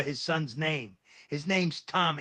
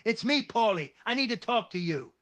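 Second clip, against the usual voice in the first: higher, louder call through a door; 6 semitones higher than usual. Acted. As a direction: raise your voice to be heard. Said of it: "knocks a bit harder this time".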